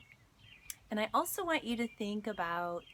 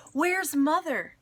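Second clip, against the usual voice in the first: high, loud call for her mother; frightened yell; 8 semitones higher, 11 dB louder than usual. Acted. Mother yelling for grandma outside the burning house, alarmed yell. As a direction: call out in alarm over the fire. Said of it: "Mama yelled".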